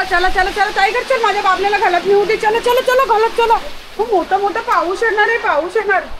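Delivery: high, urgent call to the dog; urgent pet calling. Real, not acted. Owner urging Tiger inside before heavy rain, high urgent call. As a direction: hurry the dog along, high-pitched.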